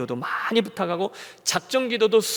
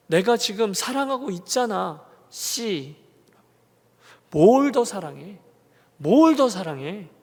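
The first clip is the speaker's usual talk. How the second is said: angry retort; 2 semitones higher, slower than usual. Retold or imitated. Pastor pulls over and yells back at God, angry. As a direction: spit out the frustration. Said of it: "너무너무 화가 나서".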